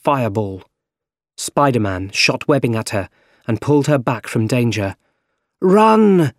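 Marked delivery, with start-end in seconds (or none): 5.6-6.3 high, loud warning yell; shouting. A narrator's reading. Spider-Man yells for MJ to run. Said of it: "he shouted to M J".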